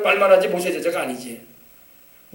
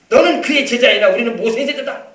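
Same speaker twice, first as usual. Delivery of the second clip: mildly raised, indignant declaration; acted shouting; 3 semitones higher, 4 dB louder than usual. Pharisees railing at the healed man, acted mild shout. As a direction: act out a moderate yell of scorn. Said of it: "하면서 막 소리를 치는 겁니다".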